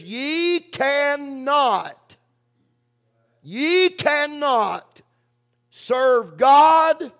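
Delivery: slow, rising to a loud, high cry on "God"; building preacher shout. Real, not acted. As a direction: drive it home to the congregation.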